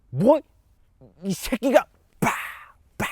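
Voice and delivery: high, loud roar of a betrayed father; furious shout. Acted. Father bellowing at his son who betrayed him, in a furious shout. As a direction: blast it out in rage.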